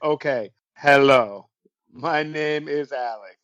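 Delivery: slow, scripted mock telemarketer read. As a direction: lightly imitate a caller reading his script. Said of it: "he talks slower".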